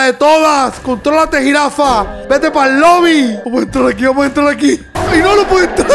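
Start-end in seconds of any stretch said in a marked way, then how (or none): 4.9-5.9 high-pitched, laughing protest; laughing panic. Real, not acted. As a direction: break into laughter while protesting. Panics, cannot get in, laughing.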